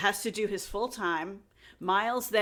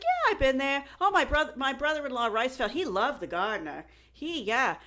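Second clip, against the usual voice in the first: higher, animated mock Boston accent; 4 semitones higher than usual. Sister-in-law answering questions about the Gardner, mock Boston accent. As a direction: imitate a chatty Boston woman. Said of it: "she sounds like she's from Boston".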